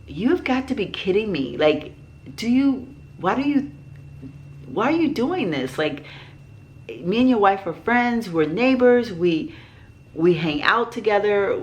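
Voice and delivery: acted-out indignant pleading with someone; retold incredulous protest. Acted protest to neighbor cornering her.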